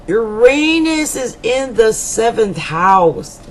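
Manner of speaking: deliberate slow reading; said slowly for emphasis; slow and clear. Shown as a demonstration. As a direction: spell it out slowly. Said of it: "If I say it slow".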